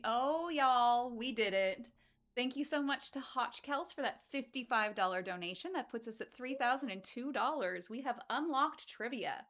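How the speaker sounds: loud, thrilled goal reached cheer; excited announcement. Real, not acted. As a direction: shout out the good news with joy.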